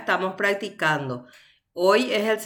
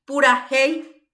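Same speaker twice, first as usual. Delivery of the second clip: Pura hey, slow and louder, stressing "hey"; 5 semitones higher, 5 dB louder, slower than usual. Shown as a demonstration. Teacher showing the tonic vowel, stressed E in Pura hey. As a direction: draw out Pura hey, leaning on the E. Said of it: "la vocal tónica es la E".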